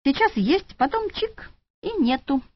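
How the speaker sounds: high, lilting shrug of a line; philosophical sigh. A narrator's reading. Orderly Andrei explaining death to the shopgirls, philosophical. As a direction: toss it off like fate. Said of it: "философски вздохнул Андрей".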